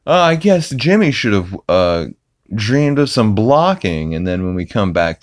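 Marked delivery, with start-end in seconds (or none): 0.1-4.1 high, bouncy sportscaster quip; mock a smug TV sportscaster joking. Imitating a sportscaster cracking a joke on air. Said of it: "the sportscaster is like".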